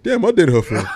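laughing. Pretend. Imitating listeners reacting, while laughing.

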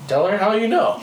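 real laughter breaking through the words; giggling as the story gets good; laughing through it. Real, not acted. Recalls urging the Jamaican girl, laughing. Teller laughing while retelling prompt.

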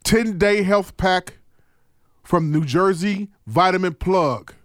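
slow, spaced-out ad read; sponsor plug. Acted. Host sending listeners for a free health pack, slow ad read. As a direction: deliver the promo phrase by phrase, with pauses.

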